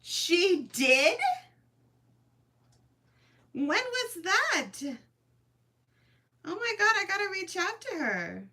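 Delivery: high, stunned and teary disbelief; can't believe she was noticed, voice up high; choked-up surprise, pitched high; overwhelmed surprise. Real, not acted. Learns a creator mentioned her.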